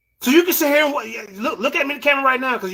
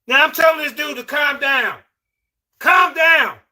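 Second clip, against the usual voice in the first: raised, insistent order to calm down; commanding shout; 2 semitones higher than usual. Real, not acted. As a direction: bark it to settle the guest. Host shouting down a guest.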